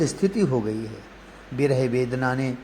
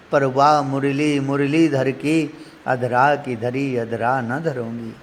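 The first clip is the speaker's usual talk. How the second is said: devotional verse recitation. Acted. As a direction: recite it as a metrical verse, lingering on syllables.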